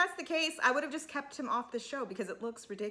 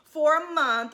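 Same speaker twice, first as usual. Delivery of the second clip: lightly voiced higher, insistent quote; imitating a quick correction; 4 semitones higher, 5 dB louder than usual. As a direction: mimic her hastily setting the record straight. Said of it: "she clears that up real quick".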